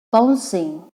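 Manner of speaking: "bouncing" in two distinct syllables; split into syllables. Shown as a demonstration. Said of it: "two syllables".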